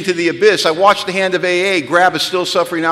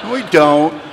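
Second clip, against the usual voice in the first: contradiction; 3 dB louder, slower than usual. Acted. Same denial repeated lower.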